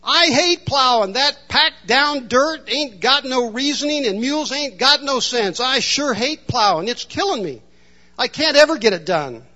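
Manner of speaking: hammed-up complaining farmer; whiner. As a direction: grumble like a man worn out by plowing. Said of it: "a whiner would come in".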